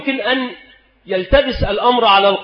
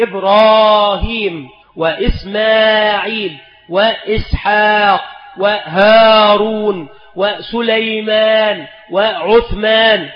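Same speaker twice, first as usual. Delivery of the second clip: slow listing; slower than usual. Shown as a demonstration. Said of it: "فالأحسن عدم الحذف".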